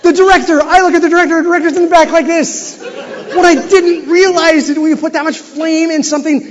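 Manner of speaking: loud, high, laughing through the words; can barely tell it for laughing; laughing storytelling. Real, not acted. Speaker recalling the host in the co-host's lap, loud laughing telling. Laughing while retelling the fiasco.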